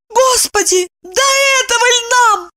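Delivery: very high, aghast; horrified. A narrator's reading. Evdokia is horrified. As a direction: clutch your head in dismay. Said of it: "ужаснулась".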